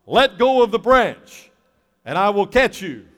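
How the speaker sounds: loud, slow booming voice from heaven; hammed-up heavenly voice; voice of God. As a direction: announce it like God from above. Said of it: "that voice comes from heaven".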